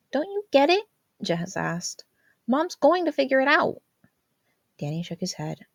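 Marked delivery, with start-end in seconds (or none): 0.1-3.8 high, urgent sister voice; a sister insisting he see the danger; Jazz, exasperated. A narrator's reading. Jazz warning Danny about Mom, high and urgent.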